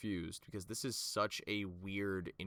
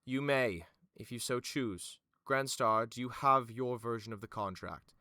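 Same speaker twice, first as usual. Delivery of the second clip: formal, emphatic official; Vima; 6 dB louder than usual. Acted. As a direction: grant it with measured authority. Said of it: "Vimid goes".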